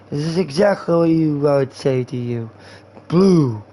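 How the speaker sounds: sloppy mock-drunk comeback; drunk guy. Drunk guy answering his friend, sloppy slur. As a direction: muddle through it as a drunk. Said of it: "that's talking to a drunk guy".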